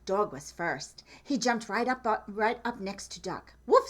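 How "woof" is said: dog woof. Acted. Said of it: "said Dog".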